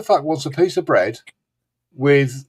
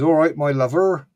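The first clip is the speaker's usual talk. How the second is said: West Country accent; 3 semitones higher than usual. Shown as a demonstration. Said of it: "the other term is".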